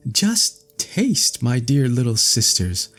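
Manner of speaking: put-on high, eager girl voice, slowing to savour the last words; delighted princess. A narrator's reading. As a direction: tempt the sisters with the apple.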